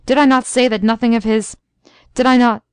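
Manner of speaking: stormy outburst at his wife; a mild stormy scolding. Acted. Husband storming at his wife over the gift, a touch angry. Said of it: "he said stormily".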